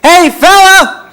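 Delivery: high, loud, drawn-out holler; drunk man's yell. Retold or imitated. Drunk stranger coming back at the comic, yelling slowly. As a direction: bellow slowly like a returning drunk. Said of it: "and he yells".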